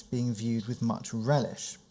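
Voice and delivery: slow, deliberate weight on "much relish"; stress on much relish. Real, not acted. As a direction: lean on the words "much relish". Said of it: "I see the emphasis of the term".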